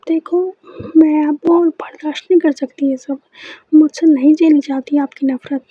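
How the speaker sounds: breaking down. Acted. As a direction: she can't take it anymore, voice rising to a shout. Breaking down, building shout.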